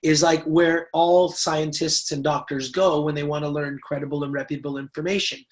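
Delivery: deadpan sarcasm about Google as a source. Shown as a demonstration. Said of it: "Hear the sarcasm".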